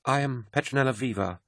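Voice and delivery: high, soft, barely composed; a woman holding back tears; shaky young woman. A narrator's reading. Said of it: "she managed".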